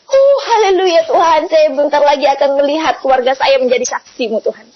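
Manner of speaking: retold cry of praise; elated praise. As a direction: exclaim it as joyful thanks to God, easing toward the end. Exclaims praise when told the news.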